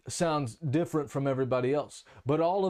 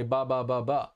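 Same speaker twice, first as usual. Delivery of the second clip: lightly mimicked run of "ba" syllables; imitated nonsense babble; 2 semitones lower than usual. Teacher denying he made up funny sounds, imitated babble. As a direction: toss out meaningless syllables as a quick illustration. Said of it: "try to say something that sounds funny".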